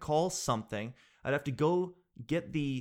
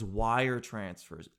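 slow dreaded words; 4 semitones lower, much slower than usual. Real, not acted. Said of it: "dreaded task".

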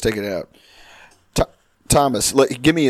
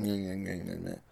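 mock nasal noises; 6 semitones lower, 17 dB quieter than usual. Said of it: "With retards on the bus going".

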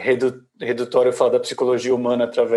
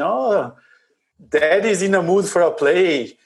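voz de cachorro; 5 semitones higher, slower than usual. Retold or imitated. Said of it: "o cachorro fala assim".

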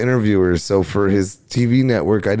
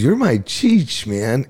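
slow, higher, laid-back imitation of Chong; mellow Chong voice; 3 semitones higher, slower than usual. Imitating Chong telling his new co-host, slow and mellow. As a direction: drawl it out like a stoner idol. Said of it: "All cool and mellow like that?".

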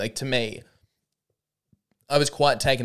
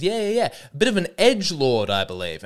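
imitating Sam; 5 semitones higher, 3 dB louder than usual. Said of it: "He goes".

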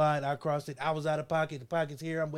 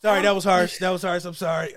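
ordinary talk, nothing marked

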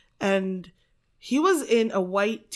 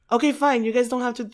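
higher, louder mock giving-in; retold exasperated concession; 4 semitones higher, 4 dB louder, faster than usual. Narrator to complaining game players, retold exasperated concession. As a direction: give in loudly, retelling your exasperation.

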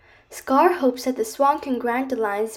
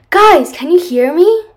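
calling out loudly, rising; 5 semitones higher, 10 dB louder than usual. A narrator's reading. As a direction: shout to find your friends. Calling friends underwater.

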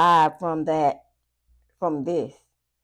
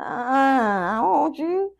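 words breaking into laughter, slower; laughing; 7 semitones higher, much slower than usual. Real, not acted. Reader cracking up at the ex's claim, laughing. Laughing right after mocking remark.

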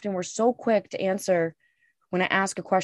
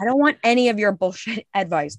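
laughing dismissal. Retold or imitated. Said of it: "I'm like".

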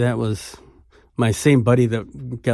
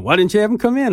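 put-on higher, a touch louder, quoting an old bluesman's surprise; imitating Muddy Waters; 11 semitones higher, 3 dB louder, faster than usual. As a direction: lightly voice the host puzzled why the friend waited outside. Retelling Muddy Waters' question.

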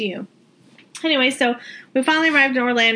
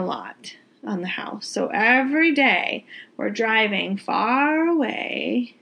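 a breathy whisper, no voice; slower than usual. Real, not acted. Telling viewers about the house updates, suddenly in a whisper. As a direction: drop to a secret whisper mid-story.

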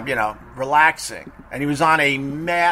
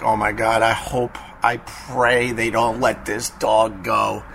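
lower, hushed worried prayer to himself; nervous inner thought; 5 semitones lower than usual. Retold or imitated. Teller walking away scared, lower muttered inner worry. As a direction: mutter it anxiously to yourself while walking away. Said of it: "I'm like".

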